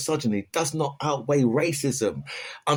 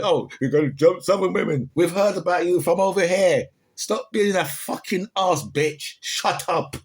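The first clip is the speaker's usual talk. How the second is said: mock retort; 4 semitones higher, 4 dB louder than usual. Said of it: "That's what I say to them".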